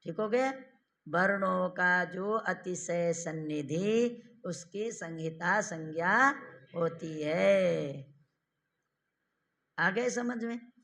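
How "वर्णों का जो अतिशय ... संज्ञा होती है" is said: slow, deliberate dictation pace; dictating slowly. Shown as a demonstration. Teacher dictating the definition slowly to students. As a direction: say the rule slowly so they can write.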